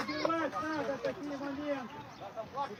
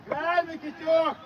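loud call to a player; yelling from the sidelines; 3 semitones higher, 6 dB louder than usual. Real, not acted. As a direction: shout it across the pitch. Coach yelling at player during match.

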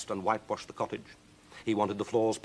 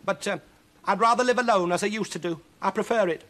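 high, strained insistence; pleading witch; 12 semitones higher, 7 dB louder than usual. Acted. Witch argues for being alone.

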